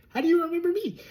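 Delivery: incredulous. Real, not acted. Incredulous at being remembered.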